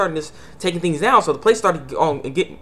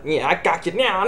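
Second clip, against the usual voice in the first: gloating archer. Retold or imitated. Archer gloating before his shot.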